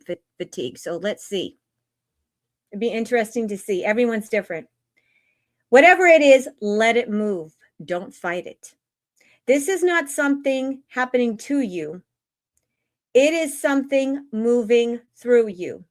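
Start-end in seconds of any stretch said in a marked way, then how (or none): 5.7-15.8 measured spiritual reading. Acted. Host reading an energy update to live chat, measured spiritual reading. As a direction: read it like a guidance message, phrase by phrase.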